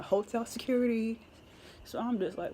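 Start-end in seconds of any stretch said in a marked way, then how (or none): 0.0-1.2 higher-pitched mock call-out; retold yell. Retelling security banging on the door, mild mock yell. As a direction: imitate security calling through a door, restrained. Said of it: "someone yelling".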